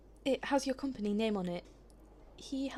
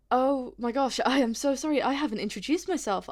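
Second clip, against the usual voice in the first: louder, gushing apology; flustered apology; 6 dB louder than usual. Acted. Visitor to staff member after forgetting introductions, flustered and apologetic. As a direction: blurt out the apology on realising the slip. Suddenly realises introductions were forgotten.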